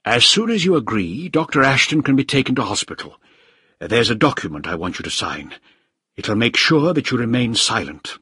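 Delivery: a hint of a controlling official; lightly voiced official. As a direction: state the terms as settled. Voices Krieger setting terms.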